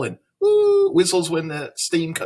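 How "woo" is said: kettle whistle. Shown as a demonstration. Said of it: "A tea kettle whistling".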